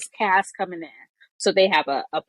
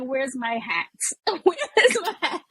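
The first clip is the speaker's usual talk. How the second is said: giggling "where's my hat" in the cold; half-laughing fluster, pitch climbing; laughing mock panic; 4 semitones higher than usual. Freezing New Yorker in the morning, laughing mock panic. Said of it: "I be like".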